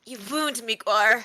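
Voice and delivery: hammed-up, mock-wounded protest; playfully dramatic. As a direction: play hurt with teasing melodrama. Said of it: "dramatically, but, like, you know, playfully".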